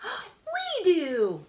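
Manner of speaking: high, loud eager kitten cry; excited shout. A narrator's reading. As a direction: shout out like keen little helpers. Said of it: "exclaimed the kittens".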